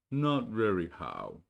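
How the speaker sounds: slow, gloomy donkey reply; lightly voiced glum donkey; gloomy Eeyore. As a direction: sound like nothing ever goes right.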